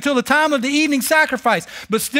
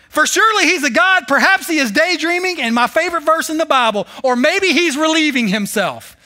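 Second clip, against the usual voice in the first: mocking sarcasm; 5 semitones higher than usual. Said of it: "Elijah began mocking them".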